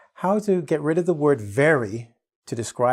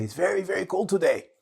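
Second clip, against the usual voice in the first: wrong version with very; 6 semitones higher than usual. Shown as a demonstration. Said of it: "You don't have to say".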